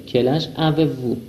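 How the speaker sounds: Quel âge avez-vous said slowly, each word apart; slow it right down for learners; slow, spelled-out repeat. Shown as a demonstration. Teacher slowly repeats the question for students.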